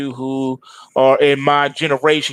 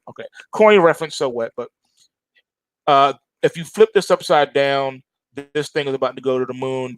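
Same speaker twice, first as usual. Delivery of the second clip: ordinary talk, nothing marked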